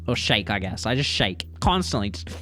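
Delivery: ordinary talk, nothing marked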